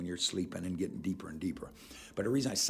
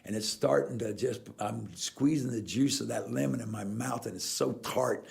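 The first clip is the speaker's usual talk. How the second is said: lemon suggestion demo. Shown as a demonstration. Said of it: "I'll just show you something".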